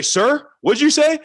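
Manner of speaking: slow, high, loud drilled line; imitating a yelling coach. Coach drilling the new player, mock yell. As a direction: spell out the proper reply like a drill coach. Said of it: "yelled at me".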